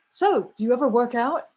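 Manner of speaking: perky, naive asking, lifting at the end; naive question. Retold or imitated. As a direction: ask it brightly like a clueless question. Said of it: "as if I had asked an Olympic athlete".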